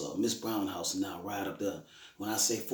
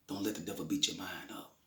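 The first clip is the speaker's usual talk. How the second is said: whispered counsel; 2 semitones lower, 6 dB quieter than usual. Retold or imitated. Fatherly counsel to daughter.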